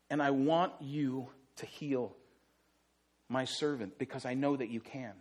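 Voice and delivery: low, soft and pleading; soft sad plea. Acted. Centurion begging Jesus to heal his dying servant, soft sad plea. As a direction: beg quietly for a dying servant.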